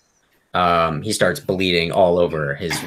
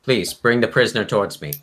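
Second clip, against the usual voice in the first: higher, raised call to a guard; 5 semitones higher, 4 dB louder than usual. Acted. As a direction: call out an order, pitched up. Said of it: "you hear her yell out".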